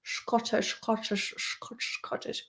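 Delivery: soft repetitions fading to nearly nothing; quiet murmur. Real, not acted. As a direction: repeat it softly, trailing into a whisper. Murmuring the accent's name fondly.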